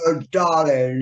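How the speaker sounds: lightly voiced theatrical luvvie; a hint of a stage actor's affected greeting; Noel Coward impersonation. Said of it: "doing these fucking Noel Coward impersonations".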